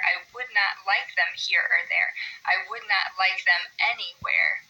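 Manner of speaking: steady da-DUM beat on "do not like them"; rhythmic reading. Shown as a demonstration. Teacher reads Green Eggs and Ham, meter marked. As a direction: read it with an even every-other-beat bounce.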